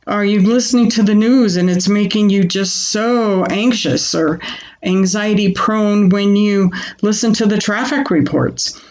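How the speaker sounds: ordinary delivery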